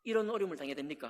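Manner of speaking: loud cry of why, then rushed; shouting protest. Retold or imitated. Job shouting his complaint at God, loud then rushed. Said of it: "소리치면서 따져 물어요".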